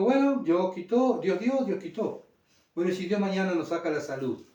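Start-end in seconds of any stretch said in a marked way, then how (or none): 0.0-2.3 higher, slow resigned acceptance; Job's acceptance. Retold or imitated. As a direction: let it go slowly, accepting the loss. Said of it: "él dijo". (Job resignado, lento y más agudo)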